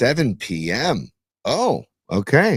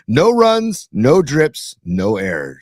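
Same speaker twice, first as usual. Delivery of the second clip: ad slogan; much slower than usual. Retold or imitated. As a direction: sell it like a retro commercial, lightly done. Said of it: "and he'd say".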